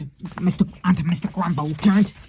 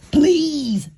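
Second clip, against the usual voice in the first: a much higher, louder plea; begging; 10 semitones higher, 6 dB louder than usual. A narrator's reading. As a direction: plead desperately. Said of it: "begged Mister Grumble".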